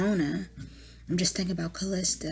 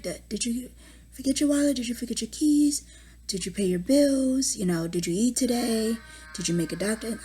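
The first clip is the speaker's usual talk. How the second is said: higher, louder mock-nagging of a forgetful husband; nagging checklist voice; 4 semitones higher, 3 dB louder than usual. Mother reminding her husband like a child, nagging and higher. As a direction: rattle off the checklist like scolding a child.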